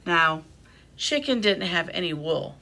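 animated picture-book reading with lifted character lines; expressive storytime delivery; reading to children. A narrator's reading. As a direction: read a story aloud to little listeners. Reads second picture book.

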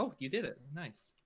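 pleasantly surprised congratulation; a touch of surprise, easing off on "Nice". Real, not acted. Congratulating the player who just made the shot, surprised. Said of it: "Why do you sound surprised?".

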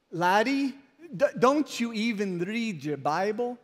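lightly imitated Scottish accent; a hint of Scottish lilt on the question; Scottish brogue. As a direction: requote the Scottish teacher in his brogue. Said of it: "brogue or Scottish accent, he said".

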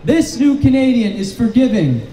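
impassioned preacher's speech to a crowd; rousing sermon-like address; rally preaching. Acted. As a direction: preach it to the rain-soaked crowd.

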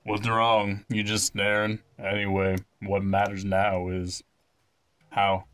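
lightly voiced, measured young chief; a hint of a solemn child leader; young chief in earnest. Young chief confiding in visitors, lightly acted and earnest. Reads game character's speech.

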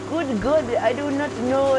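squeaky high, loud teacher. Retold or imitated. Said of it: "more higher pitch".

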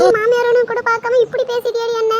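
high, loud, affronted outburst; outraged scolding. Acted. Mother-in-law rebukes daughter-in-law for disrespect, outraged. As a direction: scold as if deeply insulted.

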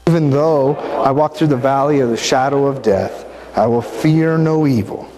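steady, unhurried recital of the psalm; psalm recitation. Real, not acted. Preacher leading listeners in Psalm twenty-three, measured recital. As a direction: recite it together as a congregation. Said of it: "Say it with me".

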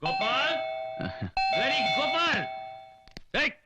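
put-on bellowing the servant's name, drunk; drunken yell. Drunk master yelling for his late servant. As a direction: call him in like a drunk boss.

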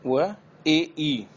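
slow एई glide. Shown as a demonstration. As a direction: glide from e to i slowly. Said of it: "ए की sound है". (एई की ध्वनि)

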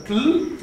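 TL released as one single consonant; tl as one sound. Shown as a demonstration. Teacher showing the class that Tl is one sound, single emission. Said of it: "es una sola emisión".

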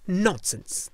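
snapped. A narrator's reading. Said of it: "the old woman snapped".

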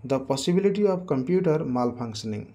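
slow, even reading; teacher reading the example for notes; slow dictation. Shown as a demonstration.

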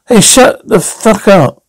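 angry. Acted. Shouting down Bruce.

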